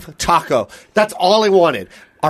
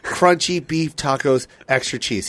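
weary plea; 4 semitones lower, 4 dB quieter, slower than usual. Retold or imitated. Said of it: "And I go".

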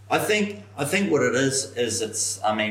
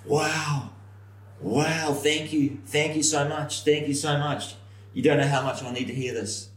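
imitating a stunned, higher-pitched thank-you; overwhelmed gratitude; 7 semitones higher than usual. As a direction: retell his amazed thanks in a raised voice. Retold grateful reaction of short guy.

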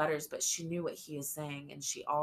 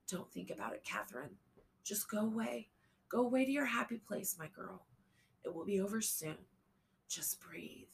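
soft tearful whisper; after crying; 5 semitones higher, 4 dB quieter, faster than usual. A narrator's reading. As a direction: soothe her through tears, hushed. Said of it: "Tears streamed down J L's cheeks".

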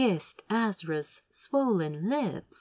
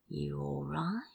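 soft concerned whisper; quiet whisper; 3 semitones lower, 8 dB quieter than usual. A narrator's reading. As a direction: whisper it gently, checking on him. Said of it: "Crow asked quietly".

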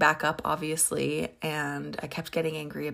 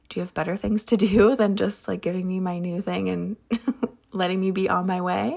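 louder, laughing through impatient disbelief; half-laughing, fed up; amused impatience at the clerk; exasperated laugh; 2 semitones higher, 6 dB louder than usual. Retold or imitated. Impatient inner thought, laughing.

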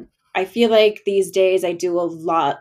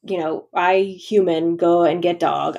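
caveman talk. Pretend. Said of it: "I don't know why I'm talking like a caveman".

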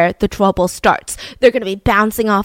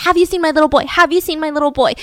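hysterical plea; 5 semitones higher, faster than usual. Retold or imitated. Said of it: "she was hysterical".

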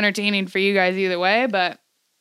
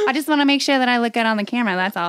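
nonchalant; faster than usual. Retold or imitated. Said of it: "very nonchalant".

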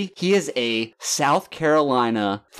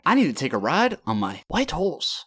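a lightly put-on North Korean accent, a little higher; mock Kim Jong-un accent; 4 semitones higher than usual. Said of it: "That was kinda Mongolian".

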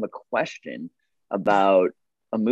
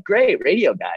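"Great, radio guy." said higher and louder, glad; pleased greeting; 8 semitones higher, 5 dB louder than usual. Shown as a demonstration. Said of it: "like, awesome".

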